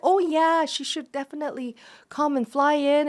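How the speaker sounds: high, keen yes; eager excited. Retold or imitated. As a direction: jump at the idea. Burning Man team eager.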